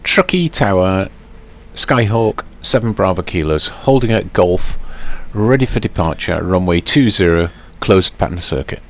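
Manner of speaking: crisp pilot radio phraseology; pilot over the radio. Acted. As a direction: read it like a pilot keying the mic. Radio call ready for departure.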